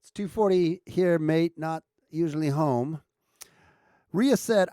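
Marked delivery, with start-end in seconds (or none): 0.0-3.0 put-on amateur Australian accent, not quite landed; retry a wobbly Aussie accent; attempted Aussie accent. Streamer retries the lost accent, rough Aussie attempt. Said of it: "I lost my Aussie accent".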